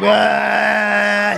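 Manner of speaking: long, drawn-out mock cry of alarm; comic drawn-out scream; nervous mock wail. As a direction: wail like a jittery flier. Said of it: "all willy-nilly on takeoff and landing".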